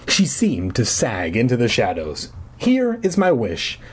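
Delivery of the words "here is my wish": high, slow and nervous; hesitant, pitched-up declaration. A narrator's reading. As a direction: say HERE high, then slowly feel out the wish. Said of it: "I said in a trembling voice".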